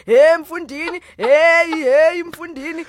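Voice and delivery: excited greeting. Retold or imitated. Mimicking friends greeting each other.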